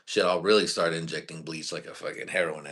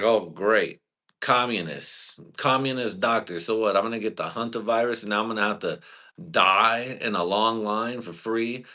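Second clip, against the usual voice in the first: sarcastic rant; 3 semitones higher than usual. Retold or imitated. Sarcastic rant at communist doctor.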